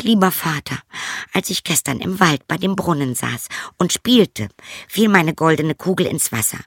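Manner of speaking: high, anxious princess. A narrator's reading. Princess telling her father about the frog, high and anxious.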